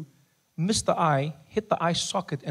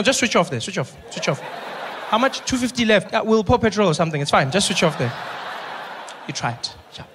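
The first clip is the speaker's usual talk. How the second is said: casual doctor. Retold or imitated. Acted doctor giving up, Eta.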